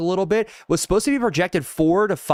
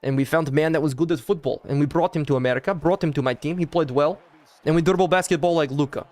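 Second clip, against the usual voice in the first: put-on lightly done Balkan accent in English; put-on Yugoslav accent; 2 semitones lower than usual. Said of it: "Do the accent".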